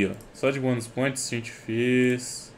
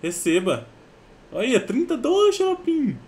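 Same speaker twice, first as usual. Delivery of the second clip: higher, louder, thrilled shouting; excited; 7 semitones higher, 8 dB louder than usual. Real, not acted. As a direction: cheer the win as it lands. Case opening pays off.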